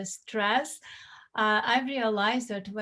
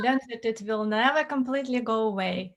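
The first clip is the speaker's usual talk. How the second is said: Russian accent. Real, not acted. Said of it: "some Russian accent".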